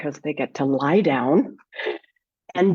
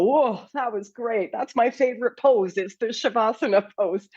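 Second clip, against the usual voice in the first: lightly imitating pleased students, higher pitch; delighted student; 4 semitones higher than usual. Teacher imitating students getting up after Shavasana, delighted. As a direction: raise the pitch as a happy student reacting. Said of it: "they get up and go".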